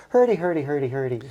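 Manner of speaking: a jokey Irish-accent gibberish demo. Shown as a demonstration. Joking how to do Irish, mock Irish babble. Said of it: "you just go".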